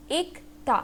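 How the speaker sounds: एक ता in two separated syllables; pronunciation demo. Shown as a demonstration. Teacher shows learners the pronunciation, sounding out एक ता by syllable. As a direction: model एक, brief break, then ता. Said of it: "इसका pronunciation क्या होगा".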